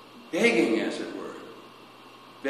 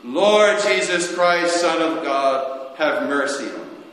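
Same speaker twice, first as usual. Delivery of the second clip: fervent prayer; 3 semitones higher, 3 dB louder than usual. Shown as a demonstration. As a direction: pray it aloud and earnestly. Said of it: "Is this so familiar?".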